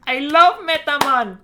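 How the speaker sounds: put-on high, loud joking Jamaican accent; bad Jamaican accent. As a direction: exclaim it in a hammy Jamaican accent. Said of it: "sounds like I'm saying it in a bad Jamaican accent".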